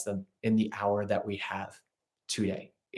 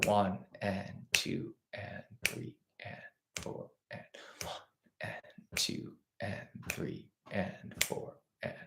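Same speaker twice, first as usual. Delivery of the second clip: counting eighths; 3 semitones lower, 13 dB quieter than usual. Shown as a demonstration. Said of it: "our subdivision, our eighth note".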